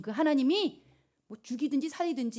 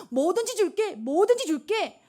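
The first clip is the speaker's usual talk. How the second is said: higher, slow and doting; gushing king; 8 semitones higher, 3 dB louder than usual. Acted. King promising Esther anything, higher and doting. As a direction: promise everything like a smitten king.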